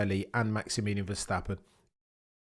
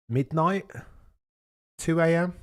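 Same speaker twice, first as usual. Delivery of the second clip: surprised; 8 semitones higher, 6 dB louder than usual. Real, not acted. Surprised at Aussie viewers' time.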